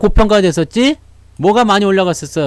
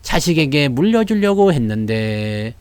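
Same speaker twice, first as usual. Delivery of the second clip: rueful lament; 4 semitones lower, slower than usual. Retold or imitated. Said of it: "뭐라 그래요?".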